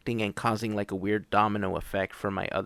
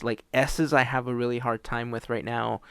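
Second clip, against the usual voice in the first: slurred S sounds from retainer; wearing a retainer. Real, not acted. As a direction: struggle with S around a retainer. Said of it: "I can't pronounce certain letters".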